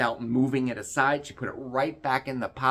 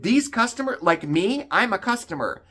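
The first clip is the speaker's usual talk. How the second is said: higher, louder, insistent; retold angry protest; 9 semitones higher, 6 dB louder than usual. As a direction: push back, offended. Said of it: "I was so mad".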